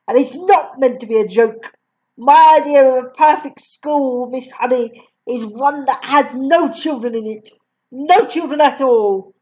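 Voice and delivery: lightly voiced stern headmistress; a hint of a scornful bully. Headmistress lecturing Miss Honey, lightly stern. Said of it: "Miss Trunchbull said".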